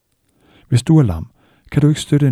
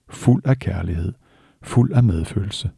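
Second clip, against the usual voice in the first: blid og rolig; slower than usual. Acted. Råb fuld af kærlighed.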